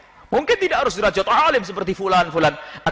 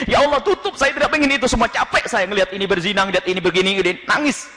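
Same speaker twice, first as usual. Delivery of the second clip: weeping prayer; 4 semitones higher than usual. Acted. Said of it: "nangis di malam harinya".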